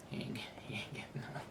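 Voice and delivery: breathy whispered aside with a chuckle; whispering. Real, not acted. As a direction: whisper it, laughing softly.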